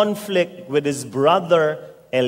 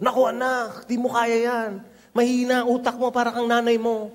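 dismissive parent; 6 semitones higher than usual. Acted. Parent putting down child's dream.

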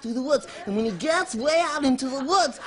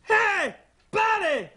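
higher-pitched hailing call; bossy forest ranger; 5 semitones higher, much slower than usual. Acted. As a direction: call out like a comic, officious ranger. Acts giant ranger calling out.

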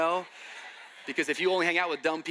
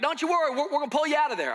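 much higher, louder, fast Southern reassurance; Tennessee boy reassuring; 10 semitones higher, 5 dB louder, faster than usual. Retold or imitated. Tennessee friend to the stuck kid, high, loud and fast. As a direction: promise it like a cocky backwoods rescuer. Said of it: "they're like".

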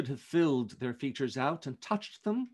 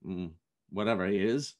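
louder, cheerful raised-glass toast; festive toast; 3 semitones higher, 6 dB louder than usual. Acted. Fred toasting the old man before his guests, cheerful and louder. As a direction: lift the room with good cheer. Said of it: "said Fred".

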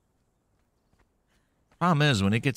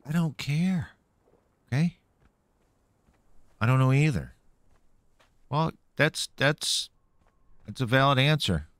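high put-on voice; 4 semitones higher than usual. Answering himself in high voice.

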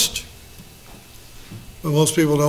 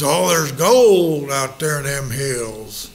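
mock prospector; 3 semitones lower, slower than usual.

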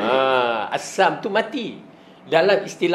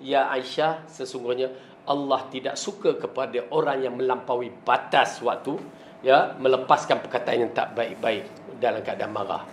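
gentle counsel; 4 semitones lower, 4 dB quieter than usual. Retold or imitated. Prophet teaches Aisyah patience.

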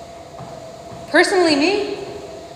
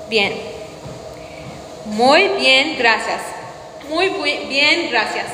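Spanish accent attempt; much slower than usual. Shown as a demonstration. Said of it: "I'm an Arabic speaker".

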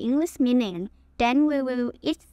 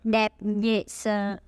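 slow model phrase; 4 semitones lower, slower than usual. Shown as a demonstration. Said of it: "let's repeat after me".

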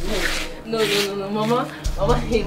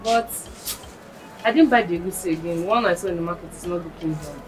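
calling out; 5 dB quieter than usual. Acted. Calling grandmother, no answer.

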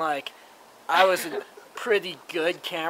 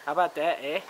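put-on Canadian accent; faster than usual. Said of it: "my Canadian accent".

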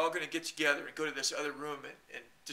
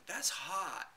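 breezy socialite purr on "That's hot."; Paris Hilton catchphrase; 4 semitones higher than usual. Retold or imitated. Imitating Paris Hilton's catchphrase in a chat room. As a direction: drop it like a bored celebrity. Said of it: "she would always go".

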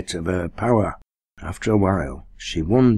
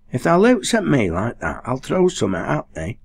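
fierce, higher threat; 6 semitones higher than usual. A narrator's reading. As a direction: Nan snapping at her mate, fierce. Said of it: "she said fiercely".

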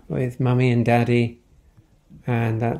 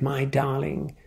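my darling said much softer; 6 dB quieter than usual. Acted. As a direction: drop to a soft hush on my darling. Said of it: "said his mummy with a kiss".

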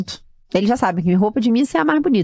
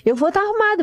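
put-on high child voice; 12 semitones higher than usual. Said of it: "child's reply".

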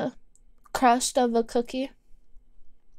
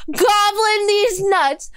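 slow, higher playful comeback; mock retort; 5 semitones higher, slower than usual. Streamer firing back at chat's goblin comment, slow mock retort. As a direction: draw out the jab slowly.

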